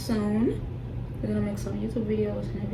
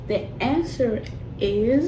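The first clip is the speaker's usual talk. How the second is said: suspense build; slower than usual. Acted. Building suspense before reveal.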